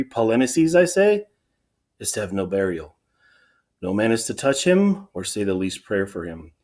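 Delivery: formal, declamatory ruler's speech; proclaiming king. Acted. King announces his burial decree to the elders, proclaiming. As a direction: deliver a firm public decree, key words punched. Reads Creon's proclamation from the play.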